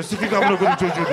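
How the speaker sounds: fast, mock-angry cursing; quick mock outburst at a TV presenter; mock swearing at the TV. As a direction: rattle off the curse like she's yelling at the TV. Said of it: "Kadın böyle, televizyona böyle yapıyor".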